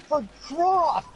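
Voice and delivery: high, drawn-out mock yell; imitated slow-motion cry; slow-motion shout. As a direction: stretch each word like slowed-down film. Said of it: "went into slow motion".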